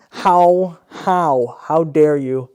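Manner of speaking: mocking the ad's Z to A, with hammed-up outrage. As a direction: play the offended Canadian, over the top. Mock outrage at the ad.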